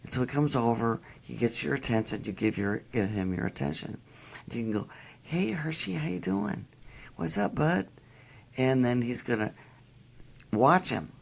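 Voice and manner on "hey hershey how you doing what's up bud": bright, higher voice for the dog; talking to the dog. Retold or imitated. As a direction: greet the pup like a friend. Greeting the dog cheerfully.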